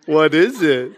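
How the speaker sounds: playful mock little girl, laughing; laughing child. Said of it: "She's like".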